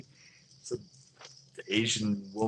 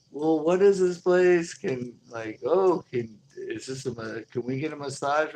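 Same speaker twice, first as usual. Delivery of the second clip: put-on drunk tourist; 5 semitones higher than usual. Drunk guy asking at door.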